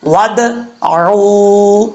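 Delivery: ع from the throat in ودعو, drawn out; slow demo of ودعو; slow tajweed recitation. Shown as a demonstration. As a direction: say ودعو slowly with a clear throat ain. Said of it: "بیچ میں الف کو چھوڑ دیں گے".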